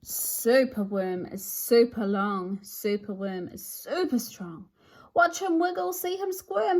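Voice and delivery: lively storybook read-aloud with sing-song rhymes; animated picture-book narration; reading to children. A narrator's reading. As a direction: read it like bedtime with a small child.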